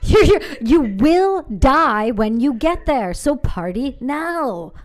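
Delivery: drawn out like a doom-saying buddy; mock ominous warning. Co-host voices the partying recruits, slow mock warning.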